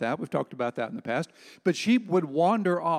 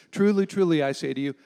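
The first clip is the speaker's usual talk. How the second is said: loud, ringing Truly, truly; pulpit-pounding preacher; 2 semitones higher, 6 dB louder than usual. Acted. Pastor to congregation, quoting Jesus with a loud pulpit-pounding proclamation. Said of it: "pound on the pulpit when he said this".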